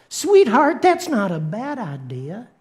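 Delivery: sweet-talking Southern devil; devil's North Carolina accent. Acted. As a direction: persuade with a put-on Carolina lilt. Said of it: "the devil picks up on it, and he's like".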